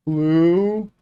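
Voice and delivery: put-on tiny high-pitched kid squeak, drawn out; imitating terrified kid. Small kid answering a towering camper, mock-terrified. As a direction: squeak it out like a frightened little kid. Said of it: "already terrified of me".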